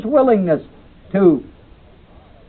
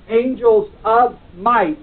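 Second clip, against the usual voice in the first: "angels of might" said slowly with the weight on "might"; stress on might; 5 semitones higher, slower than usual. Shown as a demonstration. Teacher showing the class where the stress falls. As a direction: draw out "angels of might" and land on "might". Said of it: "is emphasizing the might of the angels".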